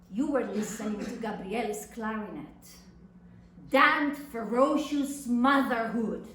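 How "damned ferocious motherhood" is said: bitter outburst. Acted.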